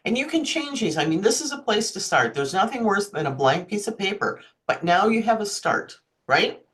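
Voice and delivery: talking through hiccups. Real, not acted. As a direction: speak between small hiccups. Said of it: "I have the hiccups".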